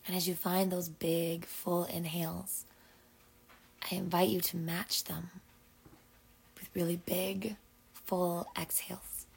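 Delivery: measured breathing-exercise voice, long pauses; guided breathing. Acted. Host invites listeners into big full exhales, guided breathing. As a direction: coax each breath along, phrase by phrase.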